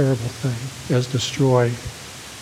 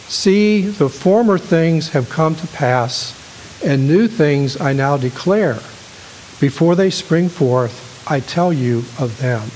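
slow, raised, proclaiming Bible reading; preacher reading a psalm aloud with weight; scripture reading; slower than usual. Acted. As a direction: declaim the verse to the congregation. Reads scripture to congregation.

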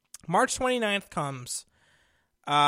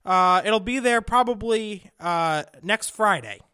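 mock cheery service rep; 5 semitones higher, 4 dB louder than usual. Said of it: "And they said".

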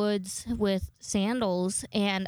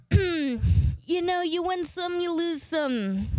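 sing-song shrug; 8 semitones higher, much slower than usual. Real, not acted.

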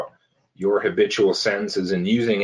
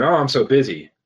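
mock frazzled complaint; 2 semitones higher, faster than usual. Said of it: "one of the common things is".

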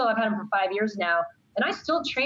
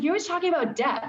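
student's complaint, pitched higher; imitating a student; 8 semitones higher than usual. Teacher imitating a student, higher and whiny. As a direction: mimic a student whining, up high. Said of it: "My student's like".

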